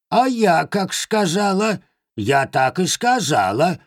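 high, indignant crone; huffy old hag; old witch voice. Acted. (обиженная старуха-ведьма)

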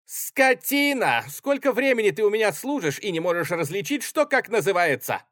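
high, loud furious scolding of the orderly; angry yelling. Acted. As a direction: tear into the servant. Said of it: "кричал Гриценко". (гневный крик на денщика)

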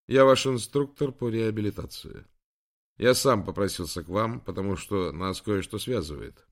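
a hint of a brisk young man; lightly lifted voice for the young instructor; lightly voiced young trainer. Instructor introduces himself to injured admiral, lightly voiced.

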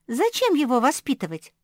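high, loud little squeak; young pup squeaking a question; squeaky. A narrator's reading. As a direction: squeak it like a small puppy. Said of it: "пропищала Жозефина".

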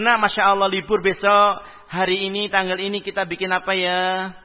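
put-on mother cheerfully coaxing her child to bake; inviting mother. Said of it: "beda intonasinya".

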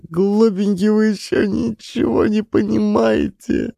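high tearful voice to her little sons. A narrator's reading. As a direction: speak through tears to the children. Weeping mother to children.

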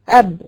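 اب with the ب stopped on closed lips; sakin letter demo. Shown as a demonstration. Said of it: "انا قلت لك ساكنة". (نطق اب بباء ساكنة)

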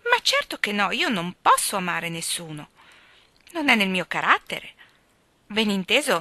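put-on lively, light young woman's voice; a flighty girl gossiping breezily; lightly voiced chatterbox girl; chatty girl. Phil on love and suitors.

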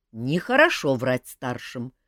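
slow, preachy scolding; lecturing. Acted. Marga lecturing the lying boy, slow and preachy. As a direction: wag a finger at the boy, slowly. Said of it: "наставительно сказала Марга".

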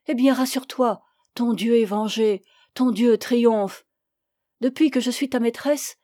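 révolte douloureuse, attaques appuyées; amante désespérée. Acted. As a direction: accabler son amant de sa souffrance. (amante à bout, amère et véhémente)

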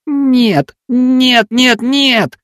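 high, desperate wailing nos. Acted. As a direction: lament that it's true. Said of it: "запричитал он".

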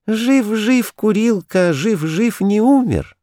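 very high squeaky singsong; thin squeal. A narrator's reading. Kurilka squealing his song to the toys, very high. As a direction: squeal it in the thinnest voice. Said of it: "завизжал самым тонким голосом".

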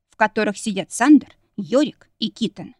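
ordinary delivery

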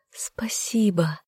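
slow soft whispered thanks. Acted. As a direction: breathe it, barely there.

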